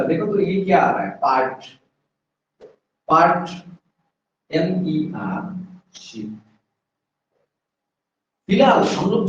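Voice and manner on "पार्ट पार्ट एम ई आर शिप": पार्ट, एम ई आर, शिप in separate chunks with long pauses; broken into parts. Shown as a demonstration. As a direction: break पार्ट from शिप, spelling एम ई आर slowly between. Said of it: "इस चीज को break करूंगा".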